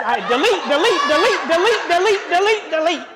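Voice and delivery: loud, rising repeated delete; emphatic. Retold or imitated. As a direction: stab each delete harder. Furious deleting of photos.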